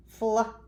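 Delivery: FLAG broken into fl, short a, g with gaps; sounding out. Shown as a demonstration. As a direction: say flag slowly, one sound at a time. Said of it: "let me say it again".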